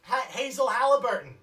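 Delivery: loud Ronnie voice. Acted. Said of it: "Ronnie says".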